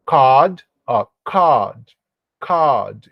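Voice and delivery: cod with the O held long, coood; lengthened vowel. Shown as a demonstration. Teacher prolongs the vowel in cod to show the long mark. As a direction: stretch the O in cod a little. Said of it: "Esse O eu estendo um pouquinho, eu prolongo ele".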